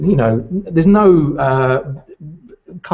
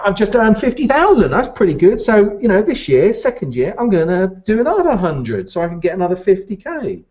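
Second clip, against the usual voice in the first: proud graduate; 6 semitones higher, 3 dB louder than usual. Retold or imitated. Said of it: "I'm like".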